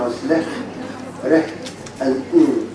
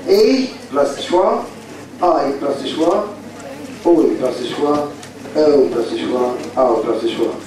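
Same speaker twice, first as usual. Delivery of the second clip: slow drill; slower than usual. Shown as a demonstration. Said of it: "you have three sounds".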